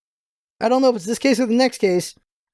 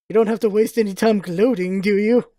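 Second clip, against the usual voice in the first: low, cool prosecutor voice; cold, measured, a touch smug; stern rival prosecutor; 3 semitones lower than usual. Acted. Edgeworth voiced in game.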